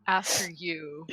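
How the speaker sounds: slow, drawn-out pompous invitation; pompous, taking their time; super pompous. Acted. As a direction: play it grandly self-important. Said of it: "being, like, super pompous".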